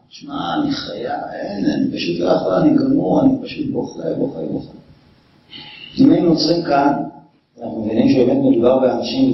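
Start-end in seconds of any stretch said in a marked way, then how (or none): 0.1-4.7 hushed, half-whispered mock weeping; mock sobbing. The preacher mock-weeps as a grieving friend, hushed and broken. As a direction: play the broken-down crier, overdone.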